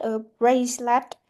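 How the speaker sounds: "bracelet" with main stress on "brace". Shown as a demonstration. Teacher demonstrates compound noun stress, BRACE stressed in "bracelet". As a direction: hit "brace" in "bracelet", lighter ending. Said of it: "so the word brace is straight".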